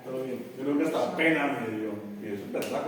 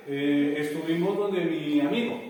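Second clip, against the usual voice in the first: sing-song student; 5 dB louder than usual. Retold or imitated. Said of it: "Si ustedes dicen".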